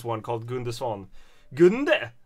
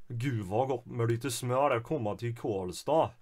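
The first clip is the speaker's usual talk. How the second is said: a lightly voiced Värmland lilt, sing-song and soft; värmländsk dialekt; Karlstad dialect; 2 semitones lower, 5 dB quieter than usual. Shown as a demonstration. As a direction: try a Karlstad accent, half-confident. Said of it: "my interpretation of how they speak in Karlstad".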